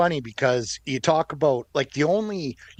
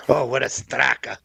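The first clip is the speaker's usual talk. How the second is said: unvoiced whisper, as if the word is naughty; whispered swear. Real, not acted. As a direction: whisper the rude word under the breath.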